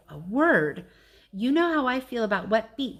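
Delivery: loud, high startled dog voice; Bob yelling. Acted. Bob yelling after landing in the pool, loud and high. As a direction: yell it, soaked and indignant. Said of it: "Bob yells".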